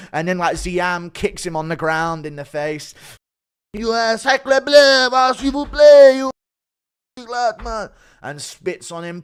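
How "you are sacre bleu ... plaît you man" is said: slow, exaggerated French accent; french chef. Mock French fighter spits on Chandler.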